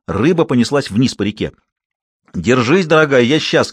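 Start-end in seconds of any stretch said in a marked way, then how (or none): 2.3-3.7 put-on louder call to the girl; shouted encouragement. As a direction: shout while running. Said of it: "кричал Гектор". (ободряющий крик)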